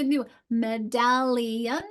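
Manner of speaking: "medallion" drawn out slowly, syllable by syllable; slow, thinking-aloud "medallion"; sounding out. Shown as a demonstration.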